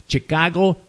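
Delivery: put-on Latin-accented cities, Miami as "my-JAH-mee"; imitating Latin speakers. Latins repeating US city names, imitated Latin accent. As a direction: say Chicago, Nueva York, Miami as a Latin would. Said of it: "you'll hear Latins down here saying".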